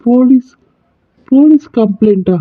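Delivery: can't believe what he just heard; shocked disbelief. Acted. Husband stunned when the doctor asks for police, shocked.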